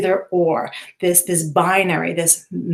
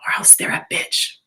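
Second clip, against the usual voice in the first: a confiding whispered aside; 5 dB quieter than usual. Real, not acted. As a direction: drop to a hushed aside. Aside about women's anger.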